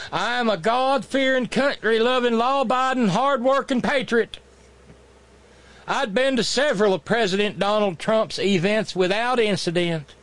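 lightly put-on Southern accent reading a letter; understated mock Southern accent. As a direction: read the plea in a mild mock Southern accent. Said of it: "I know, wrong accent".

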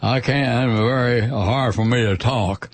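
marble-mouthed Southern mumble. Retold or imitated. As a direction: talk like cotton fills your mouth. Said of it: "old marble mouth from Alabama".

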